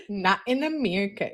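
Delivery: chuckling through the words; laughing. Real, not acted. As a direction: repeat it while laughing softly. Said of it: "repeats laughing".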